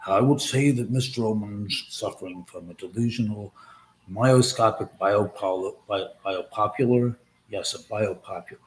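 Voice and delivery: a hint of a measured old film star; mock stately movie-star delivery; Gregory Peck impression. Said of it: "Gregory Peck used to speak like this".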